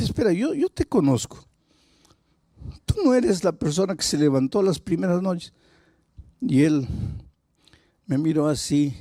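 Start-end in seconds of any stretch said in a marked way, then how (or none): 0.0-5.5 high-pitched re-enacted surprise; astonished recognition. Pastor recognizing the man from before, retold astonishment. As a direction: stop them as you suddenly recognize them.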